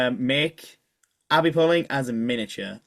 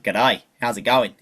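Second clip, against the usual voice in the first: slow, lightly put-on Australian accent; a friendly Aussie greeting, drawn out a little; 4 semitones lower than usual. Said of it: "that's great at an Australian accent".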